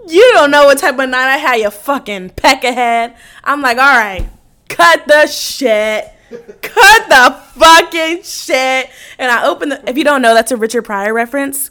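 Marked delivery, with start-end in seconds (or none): 0.1-3.2 loud, hammed-up telling-off; mock angry rant. Storyteller replaying her rant at a honking driver, mock angry. 3.8-8.9 loud, very slow, drawn-out command; mock exasperated outburst. Storyteller replaying her outburst at a honker, mock fed up. Acted outburst at honking driver.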